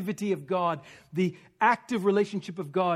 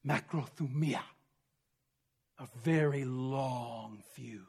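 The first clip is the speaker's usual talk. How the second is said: softer, slower, savouring the word; hushed preacher's emphasis; quiet and slow; 6 semitones lower, 7 dB quieter, slower than usual. Real, not acted. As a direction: let it sink in gently. Preacher slows on patience.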